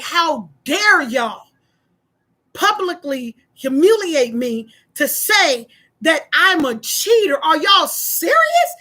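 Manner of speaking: slow, deliberate retold outrage; indignant. Wronged member emailing the whole church, indignant.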